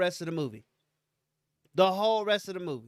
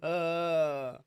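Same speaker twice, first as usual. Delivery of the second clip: long, drawn-out disgusted "uh"; mock disgusted groan; 2 semitones lower than usual. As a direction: groan as if gagging on soggy food. Retold disgust at a soggy chip.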